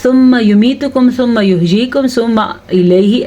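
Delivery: imitating an untrained reader hurrying the verse; recitation without tajweed. Shown as a demonstration. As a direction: rattle through the phrases without stretching. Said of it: "تجوید سے نہیں پڑھتا تو وہ کیسے پڑھتا ہے".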